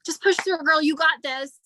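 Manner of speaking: mock the hustle-hard upline; pushy upline. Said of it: "your upline who is like".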